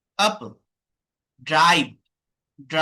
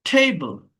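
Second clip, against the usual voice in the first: টেবল with a long, strong first syllable; stress on first syllable; 3 semitones lower, much slower than usual. Shown as a demonstration. Teacher showing where stress falls, first syllable of টেবল stressed. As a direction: lean on the start of টেবল. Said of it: "first syllable stressed".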